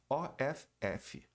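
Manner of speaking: O F F spelled out slowly, letter by letter; slow spelling. Shown as a demonstration. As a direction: spell out each letter of O F F deliberately. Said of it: "parece que é off". (soletrando devagar)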